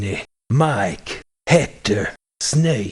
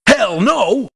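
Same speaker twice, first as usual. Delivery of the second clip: gruff refusal; 6 semitones higher than usual. Acted. Gruff merc refusing to join.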